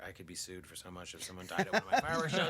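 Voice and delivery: low, fast panicky mutter; mock anxious father; a touch of a fretful dad; worried dad. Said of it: "He's like".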